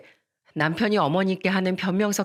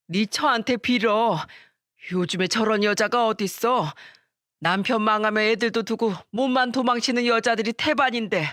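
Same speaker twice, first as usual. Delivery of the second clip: crying furious mother; 4 semitones higher than usual. Retold or imitated. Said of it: "어머님이 울면서 남편을 때리면서 말씀하셨습니다".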